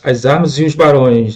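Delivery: "e os" glided into one syllable, "ios"; "e os" fused as "ios"; elided vowels. Shown as a demonstration. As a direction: link "as armas e os barões", with "e os" said as "ios". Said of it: "reparem que esse sonzinho e os".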